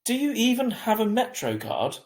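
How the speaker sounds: calling after her. A narrator's reading. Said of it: "Mum called after me".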